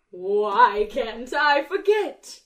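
slow, drawn-out dramatic line; dramatic lyric reading. Retold or imitated. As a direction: stretch it out like a ballad. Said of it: "she says".

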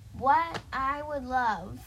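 high-pitched imitation. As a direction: draw it out, lightly mimicking someone. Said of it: "imitating me in a high-pitched voice".

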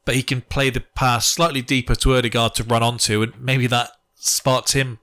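flat, even interpreter delivery; Bielsa translator voice. Pretend. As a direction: read it like a flat translation device. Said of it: "do that in the translator's voice that used to do it for Bielsa".

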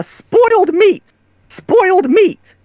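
drawn-out mock cry of alarm; mock yelling. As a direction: call it out slowly, half-heartedly yelling. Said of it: "keep yelling it over and over".

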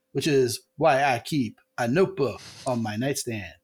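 lightly voiced deadpan comic; a hint of a deadpan stand-up delivery; barely changed deadpan joke telling; Mitch Hedberg. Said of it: "So he, he talks like that".

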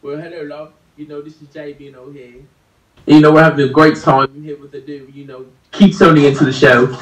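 light mock British accent; a loose, hammy British impression. Shown as a demonstration. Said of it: "I can do a British accent".

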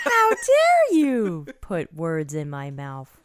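mock outrage.

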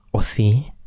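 pensamiento susurrado; whispered thought. Acted. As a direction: susurra la duda para sí mismo. (susurro íntimo, sin voz)

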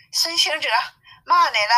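high-pitched little demon voice; little demon reporting. Acted. Little demon tells the king of insults, high-pitched report. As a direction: pipe up high with urgent news.

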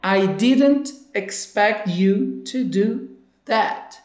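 slowly and carefully spelled out; slow model line. Shown as a demonstration. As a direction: read it slowly for learners. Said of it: "Eu não esperava que você fosse fazer isso".

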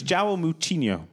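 Portuguese João Moutinho, MOO-cheen-yo; Portuguese accent. Shown as a demonstration. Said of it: "That's how you say it".

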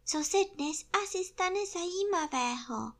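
high little piglet voice; high-voiced curious piglet; Prasátko. A narrator's reading. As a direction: ask in a small, high-pitched voice. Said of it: "řeklo prasátko".

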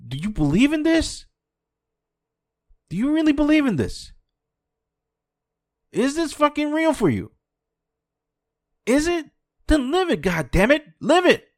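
high, loud furious demand; angry shouting. Real, not acted. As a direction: yell it at them, pleading and furious. Angry rant at listeners.

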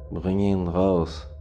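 leise, langsam, rau geflüstert. Acted. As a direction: hinter der Tür lockend flüstern. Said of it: "flüsterte die Stimme hinter der Tür". (rau geflüstert)

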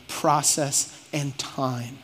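"Process and time" said slowly, weight on each noun; slow right down to underline "Process" and "time"; stress on key words. Shown as a demonstration. Preacher repeating the key words for the congregation, slow emphasis. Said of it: "Emphasis on the words process and time".

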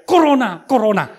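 put-on children's taunting yell, loud; mocking shout. Kids yelling at the pastor through the car window, mocking shout. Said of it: "langsung teriak".

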